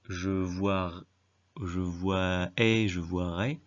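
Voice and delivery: voirai built up slowly from "voir"; wrong form voirai. Shown as a demonstration. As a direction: sound out the faulty voirai haltingly. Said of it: "on dit pas".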